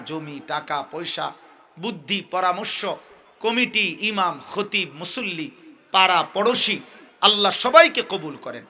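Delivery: usual speaking voice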